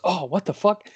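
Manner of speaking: Phil. Retold or imitated. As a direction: blurt it out as a retold startled reaction. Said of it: "Phil goes".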